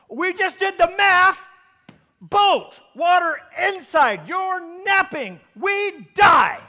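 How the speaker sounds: high, loud, drawn-out exasperated protest; panicked shouting. Acted. Frightened disciples arguing back at Jesus, panicked shouting. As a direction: shout each point slowly as if it were obvious.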